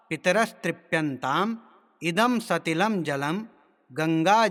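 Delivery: measured Sanskrit chanting with drawn-out syllables; mantra recitation. Shown as a demonstration. Teacher demonstrating tarpan mantras to learners, measured recitation. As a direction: intone each phrase slowly, pausing between.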